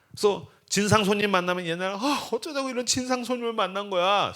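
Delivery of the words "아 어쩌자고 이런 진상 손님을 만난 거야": high-pitched mock wail; upset lament. Florist after a rude customer, mock upset lament. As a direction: bemoan your bad luck, pitched up. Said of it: "슬퍼했는데".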